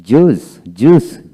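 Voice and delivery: জুস with no I sound, said loudly; loud model pronunciation of জুস, I left out; silent I. Shown as a demonstration. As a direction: say জুস as one clear syllable, joos. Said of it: "আই উচ্চারণ হবে না".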